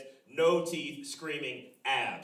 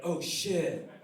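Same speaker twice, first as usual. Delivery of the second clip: put-on kid amazement; 7 semitones higher, 5 dB louder than usual. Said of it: "I was like".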